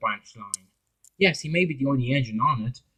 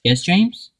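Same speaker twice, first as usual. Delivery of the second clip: higher Philip voice; 6 semitones higher, 5 dB louder than usual. Acted.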